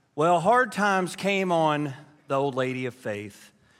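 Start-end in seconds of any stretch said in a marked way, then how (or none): none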